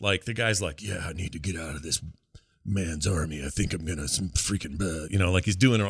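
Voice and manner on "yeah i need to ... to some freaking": low, gravelly stage whisper, half-voiced. Retelling a war buddy's line from a game: imitating a gravelly half-whisper voice. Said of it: "is it the gravelly whisper voice?".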